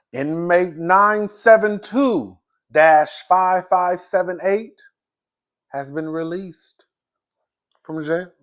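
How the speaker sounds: booming jailhouse loudspeaker call; announcer voice. Pretend. Mock jail release announcement.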